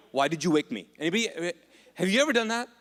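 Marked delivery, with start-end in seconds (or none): 0.1-0.9 grumpy. Retold or imitated. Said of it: "Like annoyed".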